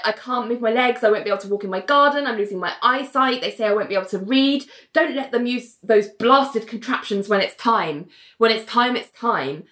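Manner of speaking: mildly agitated retold plea; panicked. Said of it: "is all panicked".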